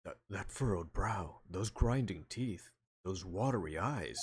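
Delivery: slow, deliberate judge voice. Acted. Judge listing Edgeworth's symptoms, slow judge. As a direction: spell out each symptom like a courtroom elder. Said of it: "that's the judge talking".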